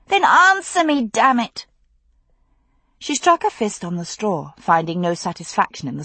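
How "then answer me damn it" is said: much higher, louder furious demand; angry shout. Acted. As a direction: yell it at him. Daughter shouting at father.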